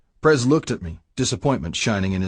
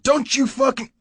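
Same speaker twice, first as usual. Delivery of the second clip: cut-off yell. Acted. Prez yells, cut off by gunshot.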